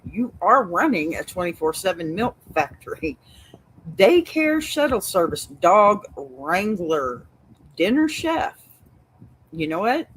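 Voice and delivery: emphatic Texas straight talk; Texas accent. Acted. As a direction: lay it out in your best Texas voice. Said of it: "best Texas voice here".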